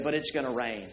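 a hint of a gloomy donkey's monotone; lightly voiced, droning gloom; understated mopey monotone; monotone Eeyore. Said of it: "in his monotone voice".

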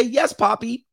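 high, sugary yes poppy; sweet girlfriend voice. Retold or imitated. Comedian voicing a girlfriend answering her man, high and sweet. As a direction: coo it like a doting girlfriend. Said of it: "She gonna say".

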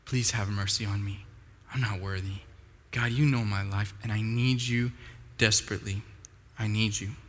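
low, soft, halting plea to God; humble prayer. Acted. Tax collector praying to God with a humble heart, humbly pleading. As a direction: plead humbly, pausing between phrases. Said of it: "with a humble heart and say".

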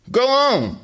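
loud, high shout; mother yelling at her son. Acted. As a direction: shoo him off with a yell. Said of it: "she yelled".

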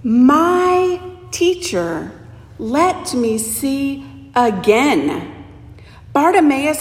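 slow, drawn-out, heartfelt plea; tender slow plea. Shown as a demonstration. Preacher repeats the beggar's plea to the congregation, slow and tender. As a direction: savour each word slowly. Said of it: "Did you hear it?".

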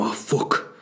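breathy northern English straining curse; Jon Snow. Retold or imitated. Comic mimics toilet stranger, strained English accent. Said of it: "sounds a bit like Jon Snow".

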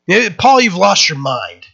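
a governor scolding with a loud cry; mock outburst that settles quickly; loud rebuke. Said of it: "Festus said with a loud voice".

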